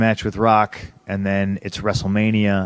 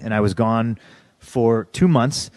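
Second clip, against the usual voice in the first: ordinary delivery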